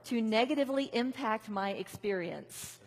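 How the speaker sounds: slow, halting call for the group to repeat; feed it in small slow pieces; slow phrase-by-phrase call. Shown as a demonstration. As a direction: lead the room line by line. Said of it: "chop them up into little pieces so that you can repeat them back".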